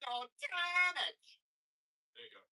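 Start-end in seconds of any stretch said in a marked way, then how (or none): 0.1-1.2 drawn-out high, very loud shout; hammed-up, slow meme yell; catchphrase impression. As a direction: belt out the catchphrase, stretched long and high. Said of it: "I can't do the emotional damage".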